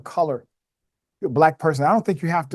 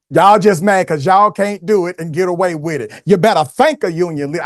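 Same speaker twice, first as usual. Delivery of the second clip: mock Southern preaching accent; 5 semitones higher, 5 dB louder than usual. Host gleefully echoing the candidate's union speech in a loud mock Southern accent. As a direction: belt it out in a playful Southern accent. Echoes the clip's accent, teasing.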